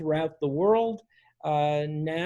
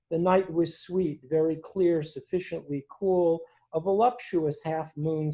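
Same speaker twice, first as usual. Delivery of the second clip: measured, earnest reading of a journal entry; reading aloud. Acted. Host reading Whitman's hospital journal to the gathering, measured and earnest. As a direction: read it to the audience like a remembered diary.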